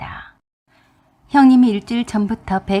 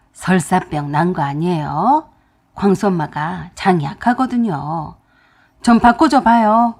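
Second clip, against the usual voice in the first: a bit irritated; 3 semitones lower, 4 dB louder than usual. Retold or imitated. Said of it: "약간 짜증이 섞여 있는 말투".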